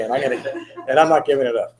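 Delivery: laughing. Real, not acted. Joking about his habit.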